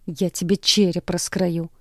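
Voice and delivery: slow snarled threat; hissing threat. Acted. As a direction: menace him slowly. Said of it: "шиплю".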